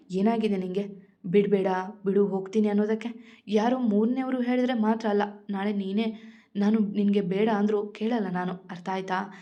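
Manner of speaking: ordinary delivery, nothing marked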